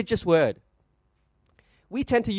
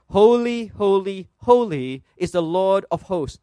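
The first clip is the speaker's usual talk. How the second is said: mildly raised, measured scripture cry; calling out; slower than usual. Acted. Preacher voicing seraphim calling to one another, mildly calling out. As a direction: call it out with slow, weighty reverence. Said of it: "one called out to another".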